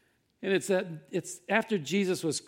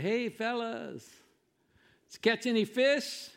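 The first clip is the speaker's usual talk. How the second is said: mock yell; 6 semitones higher, 4 dB louder than usual. Man on shore hails the fishermen, acted yell. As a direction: imitate hailing distant fishermen. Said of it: "he yells out and says".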